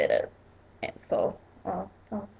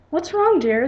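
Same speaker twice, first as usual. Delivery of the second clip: higher-pitched, lightly put-on British accent; 6 semitones higher than usual. Mother asking her anxious daughter, in a put-on British accent. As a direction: ask it in an amateur British accent. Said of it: "like, a British accent".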